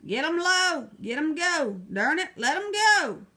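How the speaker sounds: loud, high furious yell; the riled sheriff bellows at Murphy; yell at top of lungs. Acted. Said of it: "yelled at the top of his lungs".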